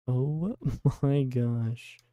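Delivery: laughing. Real, not acted. Reacting to kick drama.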